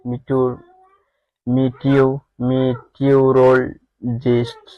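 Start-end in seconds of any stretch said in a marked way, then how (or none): 2.5-4.6 "মিটিওরোলজিস্ট" in separated chunks; careful model pronunciation. Shown as a demonstration. Teacher giving the correct pronunciation, "মিটিওরোলজিস্ট" carefully divided. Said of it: "সঠিক উচ্চারণ হবে".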